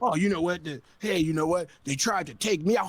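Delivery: a mocking take on the rapper feeling targeted; mock whiny rapper. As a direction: sneer out his complaint like a sore loser.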